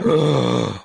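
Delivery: sharp loud dramatic gasp; shocked gasp. Acted. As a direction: gasp as if scandalised. Reacting to folded rulebook page.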